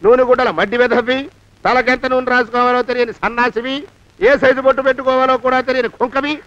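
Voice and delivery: angry scolding. Acted. Master scolding servant.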